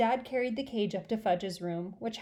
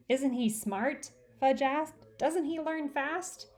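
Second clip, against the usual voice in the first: put-on proud child; 6 semitones higher, slower than usual. Fudge, proud little boy.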